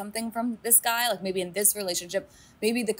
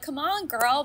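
urging; 7 semitones higher than usual. Retold or imitated. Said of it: "I wanted to shake her".

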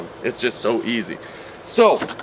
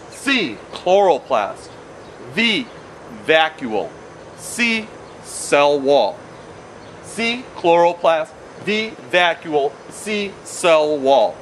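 slow drill; slower than usual. Shown as a demonstration. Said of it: "Please repeat after me".

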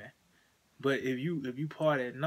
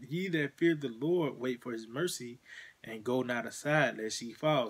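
scripture reading. Acted. Preacher reading a verse to his listener, measured and solemn.

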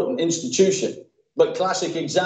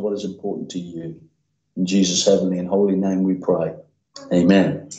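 earnest pastoral prayer voice; a preacher leading his church in prayer, earnest; 2 semitones lower than usual. Acted. Opening prayer before sermon.

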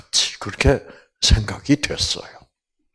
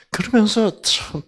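ordinary delivery

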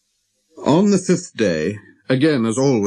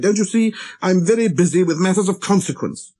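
higher-pitched, impatient protest; exasperated; 8 semitones higher than usual. A narrator's reading. Busy pilot putting off the little prince, exasperated. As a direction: plead being busy, with impatience.

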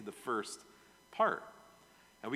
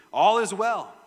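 loud, high call of good news; cried out; 6 semitones higher, 11 dB louder than usual. Acted. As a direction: call it out to the king. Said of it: "cried out to the king".

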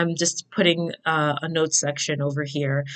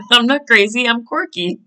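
laughing protest; 6 semitones higher, 5 dB louder than usual. Real, not acted. Laughing self-defense.

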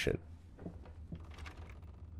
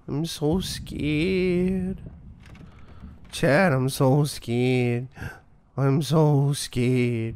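mock scared; much slower than usual. Sarcastic fake fear.

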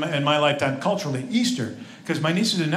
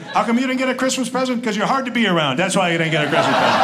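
put-on higher, louder teasing jab at a kid; mock taunting uncle; 4 semitones higher, 4 dB louder than usual. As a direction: needle the kid with playful meanness.

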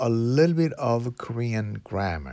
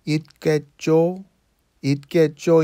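있겠죠 lifted at the end; rising intonation; 4 semitones higher, 5 dB louder, much faster than usual. Shown as a demonstration. Teacher showing learners a question ending of certainty, rising intonation on 있겠죠. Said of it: "in a rising intonation".

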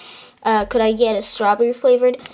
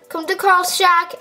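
calling out; 6 semitones higher than usual. Acted. Repeats the slip.

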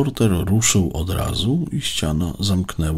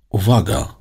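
higher, louder call of alarm; urgent narrated cry of warning; panicked warning; 5 semitones higher, 6 dB louder than usual. A narrator's reading. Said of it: "coś takiego jak popłoch".

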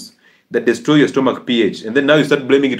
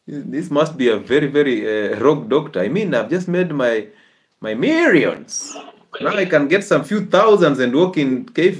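complaining listener; 3 semitones higher than usual. Acted. Host mimics a listener fed up with fasting advice, mock complaint. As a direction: playfully moan about the rogue doctor.

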